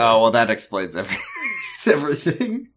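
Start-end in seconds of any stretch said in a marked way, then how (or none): 1.2-1.8 real laugh jumping far higher; sudden high-pitched cackle; high squeal of a laugh. Real, not acted. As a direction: burst into a squeaky giggle. Amused reaction in conversation.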